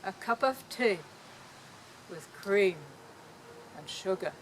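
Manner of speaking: put-on softly savouring each word in a light English accent; lovingly caressed. British artist savouring his tea words in a light English accent, softly. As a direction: linger lovingly over the words, fading softly. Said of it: "he lovingly caressed the words".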